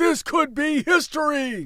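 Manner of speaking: very high, hyped, excited sportscaster shout. Watching a rerun of a ski race, imitating the announcer yelling. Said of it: "The announcer's yelling".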